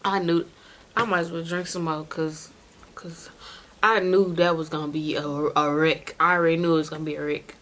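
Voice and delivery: slurring, tipsy speech; slightly slurred and loose. Real, not acted. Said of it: "And I know I'm drunk".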